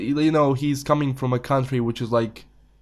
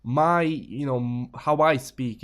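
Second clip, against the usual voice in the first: ordinary talk, nothing marked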